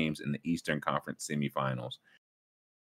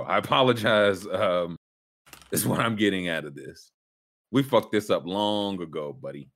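mock Boston accent. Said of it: "that was Boston Sheeran".

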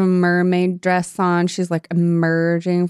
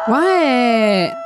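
shocked gasp; 10 semitones higher than usual. Real, not acted. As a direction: gasp and shout in surprise. Discovering pendant order form.

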